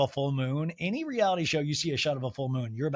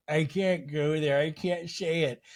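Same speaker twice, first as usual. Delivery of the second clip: put-on British accent; slower than usual. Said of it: "She's crying in British".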